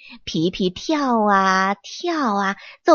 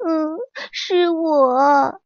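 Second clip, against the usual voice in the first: weak peach tree; 6 semitones higher, much slower than usual. Acted. Weeping peach tree answers.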